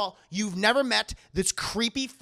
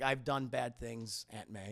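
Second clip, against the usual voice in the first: quiet low Peter; 7 semitones lower, 8 dB quieter, slower than usual. Retold or imitated. Peter confessing.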